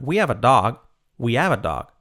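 "we have a dog" linked in a lively melody; with intonation. Shown as a demonstration. Teacher modelling intonation, melodic "we have a dog". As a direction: let "we have a dog" rise and fall. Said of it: "Con entonación".

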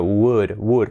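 "would" with everything open, no L; open would sound. Shown as a demonstration. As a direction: keep "would" open, L silent. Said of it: "con todo abierto". ("would" con todo abierto)

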